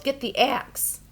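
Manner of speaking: high, urgent shout; urgent yell. A narrator's reading. Jack yelling to his mother, urgent and high. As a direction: call out the order fast. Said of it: "he yelled".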